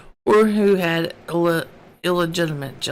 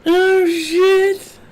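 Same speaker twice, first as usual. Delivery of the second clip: high, loud, laughing curse; laughing exclamation; 13 semitones higher, 5 dB louder than usual. Real, not acted. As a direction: break up laughing mid-line. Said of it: "I can't do it with a straight face".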